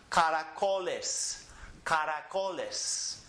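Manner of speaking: slow, drawn-out "caracoles"; measured teacher's model of "caracoles"; syllable-by-syllable demo. Shown as a demonstration. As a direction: say "caracoles" slowly, each syllable ending on its vowel. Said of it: "in with a vowel".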